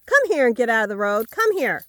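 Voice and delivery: loud call to a straying dog; yelled command. Real, not acted. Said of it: "Sorry, I yelled at you".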